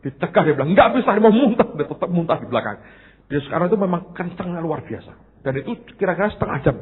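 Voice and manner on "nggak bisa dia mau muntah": retold protest.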